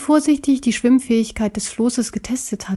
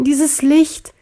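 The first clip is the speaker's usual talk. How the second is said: pained cry; 5 semitones higher than usual. Acted. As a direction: cry out against the glare. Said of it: "jammerte Sir Johann".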